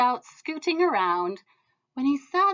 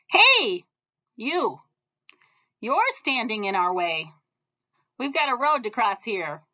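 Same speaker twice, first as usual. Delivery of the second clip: rowdy yell; 2 semitones higher, 5 dB louder than usual. Acted. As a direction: bark it out like a rowdy gang of ants. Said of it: "yelled a troop of rowdy ants".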